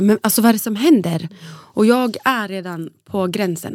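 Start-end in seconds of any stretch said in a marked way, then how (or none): 0.0-1.3 loud, exasperated question at the staff; frustrated demand. Retold or imitated. Mother demanding to know what is happening. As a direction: push them, demanding answers. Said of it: "Jag bara så här".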